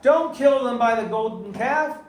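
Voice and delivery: loud, high, slow plea; urgent intercession. Acted. Moshe interceding with God for the people, urgent intercession. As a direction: plead forcefully on their behalf. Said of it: "He intercedes on their behalf".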